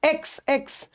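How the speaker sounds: एक्स said as eks, the e and s joined; eks sound. Shown as a demonstration. Teacher drilling the eks sound for students. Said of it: "स नहीं आ रहा है".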